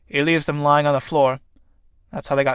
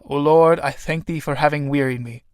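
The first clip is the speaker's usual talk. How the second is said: prayer. Acted. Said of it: "Something like this".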